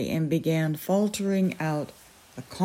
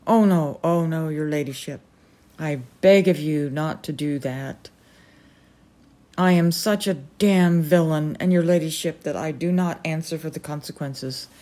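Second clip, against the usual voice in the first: anguished pleading. Acted. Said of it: "cried the crazy colonel in an agony".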